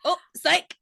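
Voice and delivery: a teasing gotcha in a put-on voice; mock taunt. Imitating the tethered Josh for friends, teasing. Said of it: "acting like he's at a hell probe and be like".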